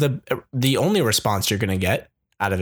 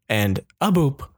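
phone hang up click. Shown as a demonstration. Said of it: "That's my hang up noise".

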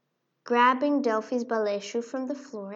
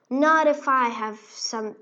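angry king; 7 dB louder than usual. Acted. King Rat's angry reply.

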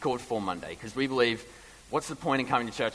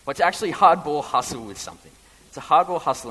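loud, higher, driving; preaching loudly; 6 semitones higher, 12 dB louder than usual. Real, not acted. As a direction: hammer home "hardball hustle". Building preacher emphasis.

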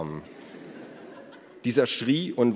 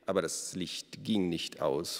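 knowing guess; 2 semitones lower, 7 dB quieter than usual. A narrator's reading. Detective quietly supplies his guess.

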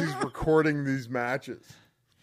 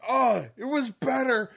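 high, complaining; whiny wrestler voice; 9 semitones higher than usual. Retold or imitated. Wrestler imitating Mantis X whining after the slam, high-pitched. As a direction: gripe that it still hurts. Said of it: "but he's just like".

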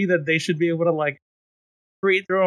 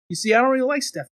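hammed-up eager coworker; 5 semitones higher than usual. Coworker asks HR to bank a yes, hammed-up high voice. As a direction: sell the scheme with mock sweetness.

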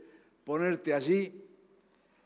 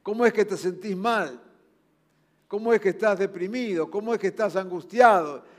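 mock reproach; 3 semitones higher, 5 dB louder than usual. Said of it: "esa palabra que viene y dice".

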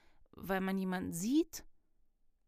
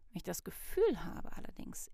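whisper. Real, not acted. Explaining, whispered.

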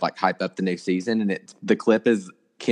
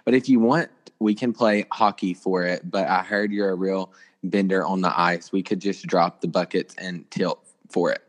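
put-on Canadian accent. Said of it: "Canadian voice".

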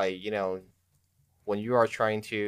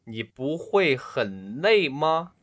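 put-on voice; 5 semitones higher, slower than usual. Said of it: "I'll do it with my real voice".

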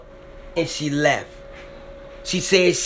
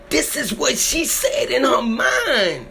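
tearful outburst; 5 semitones higher than usual. Real, not acted. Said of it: "I get so emotional".

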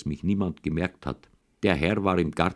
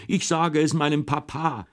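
crying yell; 9 semitones higher than usual. A narrator's reading. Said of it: "hat furchtbar geweint und hat immer geschrien".

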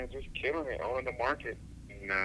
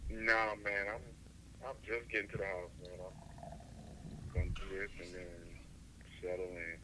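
tired; 6 dB quieter than usual. Real, not acted. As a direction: sound worn out, winding down softly. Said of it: "I know you're tired".

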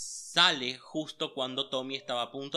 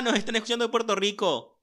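stifled giggles; 2 semitones higher, 6 dB louder than usual. Real, not acted. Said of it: "yo no estoy aguantando la risa".

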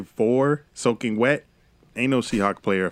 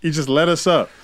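put-on drunk, pleading with the guard; 6 semitones higher, 4 dB louder than usual. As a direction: slur a little, tipsy and begging. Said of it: "I'm drunk now".

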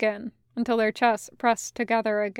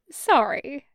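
not sorry at all; 4 semitones higher than usual. Acted. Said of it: "not sorry at all".

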